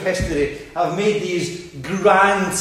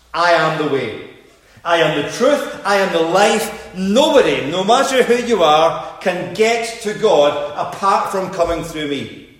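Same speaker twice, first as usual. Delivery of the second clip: rising, building declaration of Christ's words; fervent sermon proclamation; preaching proclamation. Acted. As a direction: proclaim each I am with growing force.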